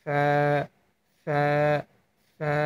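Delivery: ফা with air pushed out between lip and teeth; Arabic letter demo. Shown as a demonstration. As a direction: let the air escape on each ফা. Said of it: "মানে বাতাস বের হবে".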